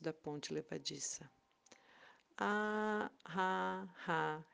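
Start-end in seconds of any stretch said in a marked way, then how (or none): 2.4-4.4 big mocking dragon laugh; booming dragon laugh. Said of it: "riu o dragão". (gargalhada de dragão)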